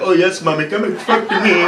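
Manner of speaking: hammed-up Indian accent come-on; lightly put-on Indian accent. Comic playing an Indian dude flirting, Indian accent. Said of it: "nothing sexy about an Indian accent".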